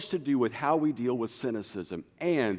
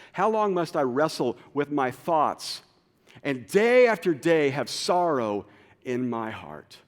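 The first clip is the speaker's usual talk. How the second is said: lament; 3 semitones higher, 7 dB louder than usual. Acted. Psalm lament.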